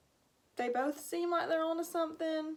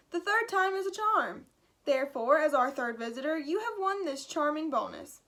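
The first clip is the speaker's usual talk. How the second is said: jolly announcer; 3 semitones higher, 3 dB louder than usual. Acted. Jolly announcer awards bonus.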